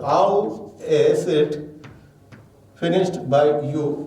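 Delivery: slow, spaced-out reading of the full question; teacher dictating the question word by word; slow dictation. Shown as a demonstration. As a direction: read it slowly so students can copy. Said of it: "So then question word".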